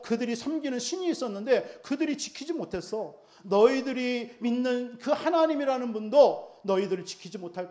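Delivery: mocking taunt. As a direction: taunt them like the enemy king's envoy, half-acted. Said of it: "그 막 비아냥거리게 만듭니다".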